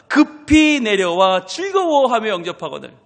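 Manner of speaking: loud, slow reading of the verse; slow scripture reading. Shown as a demonstration. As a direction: read the verse slowly, stressing 급히. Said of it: "scripture read with emphasis". (급히를 강조하며 천천히 성경 낭독)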